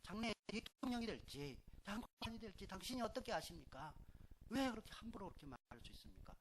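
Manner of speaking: high, trembling mock protest to the teacher. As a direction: imitate the wife's shaky indignant plea. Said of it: "얼마나 무서운지 바들바들 떨면서". (선생님께 떨면서 따지는 아내)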